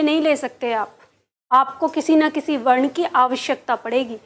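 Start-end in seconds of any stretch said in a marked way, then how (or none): none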